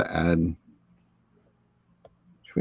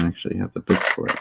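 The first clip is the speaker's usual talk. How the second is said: talking while chewing; words around crunchy bites; crunching chips; 6 dB quieter, faster than usual. Real, not acted. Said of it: "Sorry for the crunchy, crunchy noises".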